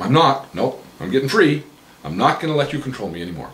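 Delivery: rising, loud and triumphant; excited declaration. Acted. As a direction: announce your freedom with joy. Client's therapy role-play.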